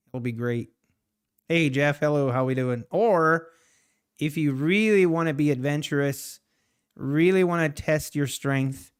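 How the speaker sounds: a hint of a pumped-up YouTuber begging for likes; Patrick Whelan impression. Streamer to his chat, a light Whelan-style hype voice. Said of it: "my best Patrick Whelan impression".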